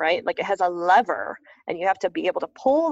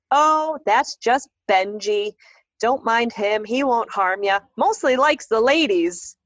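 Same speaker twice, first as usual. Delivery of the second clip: put-on slow, louder easygoing old caretaker; a hint of a drawling caretaker; folksy groundskeeper; 3 semitones higher, 4 dB louder, slower than usual. Groundskeeper reassuring the family, an easygoing folksy voice.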